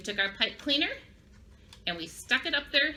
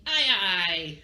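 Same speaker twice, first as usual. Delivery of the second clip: sailor's answer, lower pitched; piratey yes; 4 semitones lower, 4 dB louder than usual. Shown as a demonstration. Teacher leading children in saying yes to the captain, piratey. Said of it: "Say that with me".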